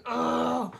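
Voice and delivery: retold groan of frustration; exasperated groan. Patient mad about the x-ray note, exasperated groan. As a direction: let out a drawn-out, fed-up ugh. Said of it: "I was so mad".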